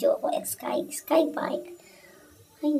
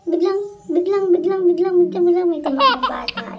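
mock dramatic buildup; 7 semitones higher, 8 dB louder than usual. Mock dramatic slow-motion buildup.

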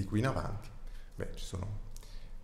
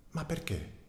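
high, small calf asking why; a young animal's dismayed question, pitched up; 7 semitones higher, 4 dB quieter than usual. Acted. The calf asks the rat why he leaves, high young voice.

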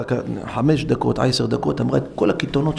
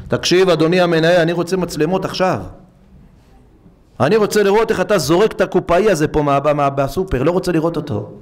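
indignant demand; 3 semitones higher than usual. Retold or imitated. Customer demands cameras loudly.

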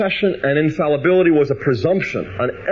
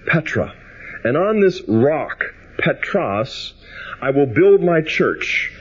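solemn, deliberate Gospel reading; scripture reading. Acted. Preacher reads Jesus' words to Peter, solemn and deliberate. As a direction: give the words of Jesus weight and space.

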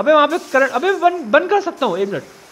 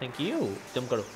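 soft and gentle; 9 semitones lower, 13 dB quieter than usual. Real, not acted. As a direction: speak much softer, gently coaxing. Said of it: "आप मुझे please आराम से बोल". (नरम धीमी आवाज़ में)

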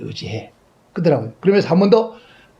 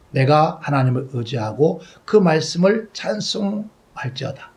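scripture reading. Acted. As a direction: read the verses with solemn weight. Reading psalms aloud.

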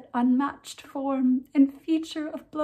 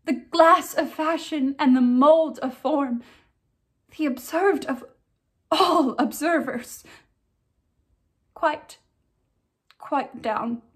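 tragic heroine sorrow; 2 semitones higher than usual. Acted. Ophelia's grief speech, performed.

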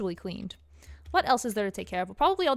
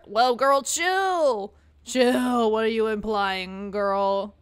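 loud whoa; 6 dB louder, much slower than usual. Real, not acted. Player telling the character to chill, loudly. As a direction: call out to stop her. Reacting to pregnancy hint.

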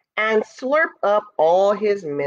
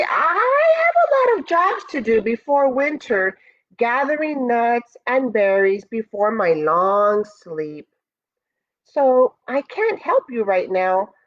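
put-on character voice, pitched up, making excuses; excuse-making bear; 5 semitones higher than usual. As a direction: stall apologetically as a reluctant bear.

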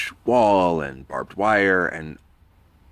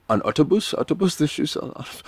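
flustered reply; 9 semitones higher than usual. Retold or imitated. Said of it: "I said".

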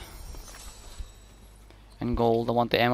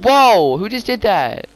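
loud startled whoa, pitched up; surprised shout; 7 semitones higher, 8 dB louder, slower than usual. Real, not acted. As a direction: blurt it out in shock. Sudden shock in game.

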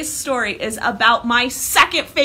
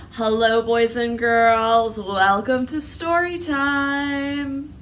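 nice; much slower than usual. Shown as a demonstration. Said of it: "show off your best library manners".

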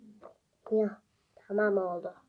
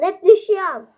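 frustrated shout; 6 semitones higher, 12 dB louder than usual. Real, not acted. Frustrated outburst.

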